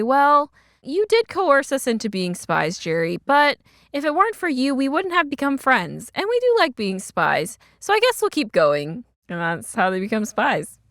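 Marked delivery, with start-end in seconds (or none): 0.0-9.0 higher-pitched retold girl voices; girls conceding. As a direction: concede to the boss in a lighter, higher voice. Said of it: "they look at each other and they say".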